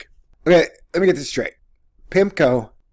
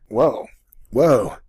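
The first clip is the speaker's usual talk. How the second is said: ordinary delivery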